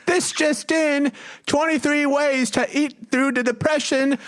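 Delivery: high street urchin calling headlines; newsie voice. Acted. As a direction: hawk it like a London paperboy. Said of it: "London street urchin voice".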